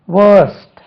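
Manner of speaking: "வேர்ஸ்ட்" loud and high, long vowel, silent r; careful model pronunciation. Shown as a demonstration. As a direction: stretch "வேர்ஸ்ட்" without an r, crisp st ending. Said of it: "இதுக்கு உச்சரிப்பை கவனிக்கணும்". ("வேர்ஸ்ட்" என்பதில் ர் ஒலிக்காமல் நீண்ட உயிரொலி)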